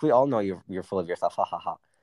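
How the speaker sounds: joking, teasing tone. Retelling what they said to a guy who blew it out of proportion, retelling a joking tease. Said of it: "I said it in a joking way".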